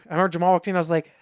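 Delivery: ordinary delivery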